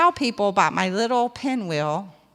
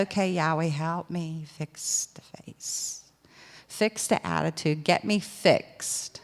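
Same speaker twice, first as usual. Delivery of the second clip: quiet prayer; 4 dB quieter than usual. Retold or imitated. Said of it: "I said".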